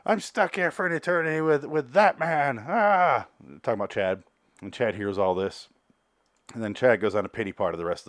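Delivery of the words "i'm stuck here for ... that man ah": high, hammed-up wail ending in "Ah!"; mock breakdown. Man stuck here for eternity, mock breaking down. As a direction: imitate someone falling apart, voice pitched up. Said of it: "he starts breaking down".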